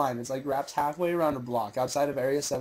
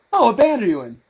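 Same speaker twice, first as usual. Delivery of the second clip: clueless fan question; 6 semitones higher, 9 dB louder than usual. Retold or imitated. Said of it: "he goes".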